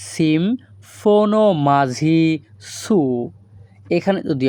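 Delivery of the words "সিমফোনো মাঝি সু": সিমফোনো মাঝি সু said slowly, syllable by syllable; slow Greek demo. Shown as a demonstration. Teacher slowly models সিমফোনো মাঝি সু for viewers. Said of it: "এই বাক্যের Greek ভাষা হবে".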